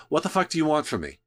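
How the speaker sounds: put-on quick Boston accent rant. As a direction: fire it off in a thick Boston accent. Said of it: "I hear Jonah's voice ... grew up in Boston".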